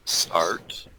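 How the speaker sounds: unvoiced whisper. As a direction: hush the word. Whispered start.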